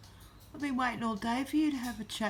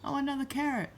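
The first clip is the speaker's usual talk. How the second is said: voicing the parrot; 4 semitones higher than usual. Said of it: "you can say".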